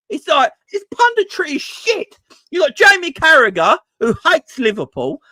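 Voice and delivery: high-pitched burst of frustration; exasperated rant. Real, not acted. Fan fed up with TV punditry, exasperated. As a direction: let the voice leap up in real exasperation.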